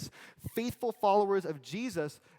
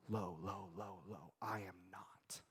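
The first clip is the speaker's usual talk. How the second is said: softer and softer until a whisper; fading to whisper; 5 semitones lower, 10 dB quieter, slower than usual. Acted. Preacher sinks from a soft voice to a whisper, showing John's lowliness. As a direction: let the voice sink down with each low. Sinking lower, voice falling away.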